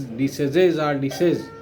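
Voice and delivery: "diseases" as dee-SEZ-ez, "disease" as dee-SEZ; mispronunciation demo. Shown as a demonstration. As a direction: show the error, short e in "diseases" and "disease". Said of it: "People incorrectly pronounce disease".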